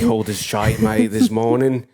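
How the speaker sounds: put-on British accent, playful; British lad complaining about the weather; British slang. Riffing with co-host on the cold, British accent. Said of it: "as the Brits say".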